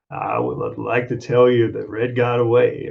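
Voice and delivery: lightly voiced calm narrator; Morgan Freeman voice. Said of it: "the Morgan Freeman voiceover".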